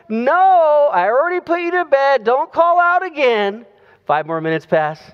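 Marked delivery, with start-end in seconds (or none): 0.1-3.7 mock-stern mom. Mom answers more firmly.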